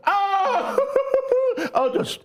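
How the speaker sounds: high-pitched giggly delight; gleeful laughing. Real, not acted. Bears fan delighting in Packers fans' tears, laughing. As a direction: laugh through the words, starting very high.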